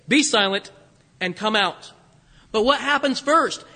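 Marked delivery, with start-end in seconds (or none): 0.1-1.9 firm, loud command; stern rebuke. Shown as a demonstration. Jesus ordering the unclean spirit out, stern and loud. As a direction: cast the spirit out firmly. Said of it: "Two commands".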